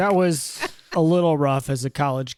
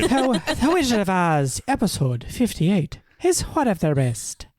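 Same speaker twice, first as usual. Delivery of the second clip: questionable attempt at an Irish accent, a touch higher; Irish accent; 4 semitones higher than usual. Podcaster reading a listener's review, in a mock Irish accent. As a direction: read it in a put-on Irish brogue. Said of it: "questionable attempt at an Irish accent".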